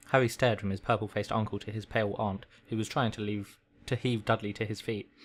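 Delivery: measured read-aloud storytelling; story narration. A narrator's reading. Reading a requested story to a listener, story narration. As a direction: read it like a bedtime audiobook.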